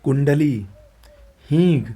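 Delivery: ordinary talk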